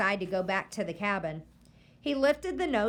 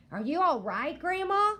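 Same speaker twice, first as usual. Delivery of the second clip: put-on high, rising boy's question; worried boy; 9 semitones higher, 3 dB louder than usual. A narrator's reading. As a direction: ask gently how she is. Boy worried about grandma.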